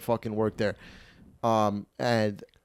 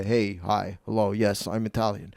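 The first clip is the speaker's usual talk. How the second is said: lightly voiced Italian old-timer, lower; a hint of an old construction worker, trailing softer; old Italian guy; 4 semitones lower, 3 dB quieter than usual. Joe as he really talks on the phone, lightly voiced old Italian guy. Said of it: "He's more like a".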